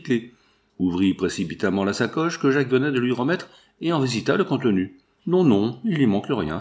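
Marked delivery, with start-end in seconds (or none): 5.3-6.6 joyful. Acted. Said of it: "fit-il avec joie".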